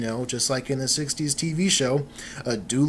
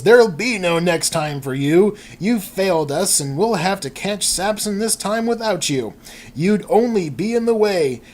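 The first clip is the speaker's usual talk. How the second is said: hammed-up scolding, raised pitch and volume; stern rebuke; 5 semitones higher, 4 dB louder than usual. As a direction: dress him down like a commissioner in a comic. Acted scolding by Commissioner Gordon.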